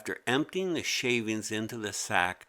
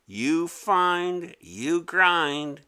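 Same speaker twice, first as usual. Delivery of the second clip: mock retort; 7 semitones higher, 5 dB louder, much slower than usual. Mimi mocking retort.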